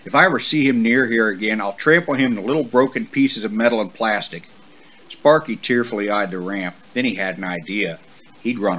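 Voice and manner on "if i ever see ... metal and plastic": stern, raised-voice threat; forceful parental threat; warning. Acted. Father horse threatening his son's friend, stern warning. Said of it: "Papa warned".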